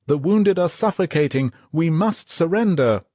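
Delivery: lieutenant pleading with the captain; yelled plea. Acted. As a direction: press the captain hard. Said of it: "yelled the lieutenant".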